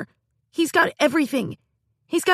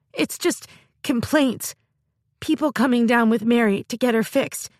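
sobbing; 5 semitones higher than usual. Acted. Girl pours out her grievances to her sister, sobbing. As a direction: pour it out, crying and complaining. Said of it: "started to sob".

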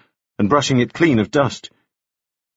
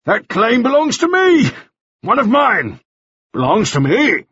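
higher, louder crowing claim; boastful exclaiming; 13 semitones higher, 3 dB louder than usual. A narrator's reading. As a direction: crow about owning it. Mannering exclaims ownership.

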